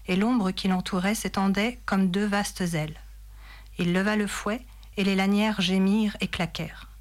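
measured literary read-aloud; story narration. A narrator's reading. Reader telling listeners of the advancing enemy, story narration. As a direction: narrate the battle as from a novel.

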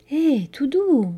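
slow, soft calming words; breathed softly. A narrator's reading. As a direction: soothe a frightened girl, drawn out slowly. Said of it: "souffla le nain".

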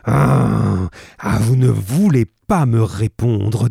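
colère sonore, plus forte; menace furieuse. Acted. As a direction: crache ses insultes en menaçant. Roylott menace Holmes. (menace furieuse du visiteur)

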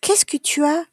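put-on high-pitched, gentle childlike concern; concerned question. A narrator's reading. Child asking a sad classmate, gently concerned. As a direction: ask lightly, voice lifted, what is wrong. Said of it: "une petite fille qui a l'air triste".

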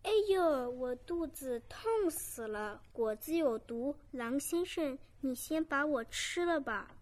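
loud cry of a lamb in pain. Acted. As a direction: wail as if poisoned. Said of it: "痛苦地叫起来".

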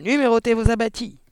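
high, loud, rough squawk; husky parrot threat. A narrator's reading. Hidden parrot menacing the searching family, husky loud squawk. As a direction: squawk it as a hoarse, ghostly warning. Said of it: "voilée et rauque cette fois".

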